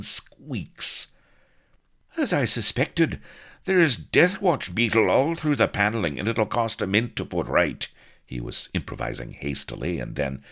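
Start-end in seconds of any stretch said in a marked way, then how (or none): 2.2-7.9 high, loud blustering cover story; improvised excuse. A narrator's reading. Blood bluffing after crashing into the cabin, blustering.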